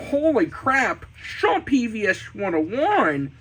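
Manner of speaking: lightly voiced cartoon impression; Peter Griffin. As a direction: blurt it as an iconic cartoon line. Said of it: "Here's Peter Griffin is doing the iconic".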